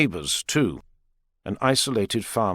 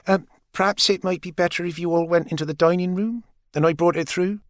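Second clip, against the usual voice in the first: flirty mother; 8 semitones higher than usual. A narrator's reading. Maggie flirts with Richard, lightly voiced and dreamy. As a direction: bat your eyelashes with your voice.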